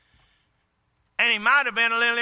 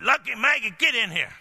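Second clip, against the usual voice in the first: firm command. Retold or imitated. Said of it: "stomp my foot".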